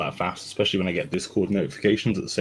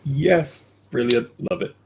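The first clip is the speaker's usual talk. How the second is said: high, excited little celebration; mock cheering; 10 semitones higher, 4 dB louder, slower than usual. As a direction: re-enact a gleeful victory cheer. Acting out joy at fifth kill.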